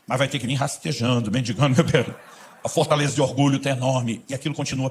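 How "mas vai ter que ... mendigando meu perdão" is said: slow, proud, grudging concession; half-hearted forgiving with a proud demand; grudging condition. Retold or imitated. Believer bargaining with the Spirit, grudging and proud. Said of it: "começa a ceder condicional".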